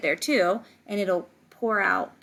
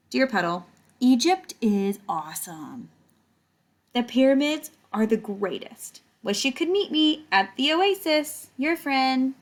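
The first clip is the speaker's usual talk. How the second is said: higher, louder cheerful letter read; Toot's letter; 5 semitones higher, 4 dB louder than usual. Acted. Toot writing Puddle from Egypt, lightly voiced cheerful letter. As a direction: gush about the pyramids. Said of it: "here's Toot".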